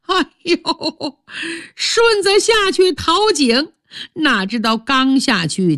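a wife faking grief as she breaks the news; stepmother's fake sobbing. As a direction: stepmother feigning tears to her husband, high and whimpering. Stepmother reports the collapse.

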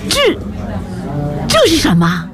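halting, astonished question; amazed. A narrator's reading. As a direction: falter on the first word in wonder. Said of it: "她惊异地问". (惊异地迟疑发问)

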